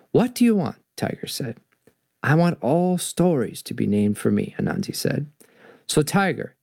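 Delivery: lightly acted storybook dialogue; animated story narration. Tiger bargains with Anansi over stories, lightly animated storytelling. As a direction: read the tale's dialogue with lively pitch swings. Reads folk tale dialogue aloud.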